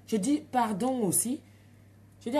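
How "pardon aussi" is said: loud, sarcastic pardon aussi; defiant comeback. Retold or imitated. Mother answering the midwife, loud and defiant. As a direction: throw it back at her.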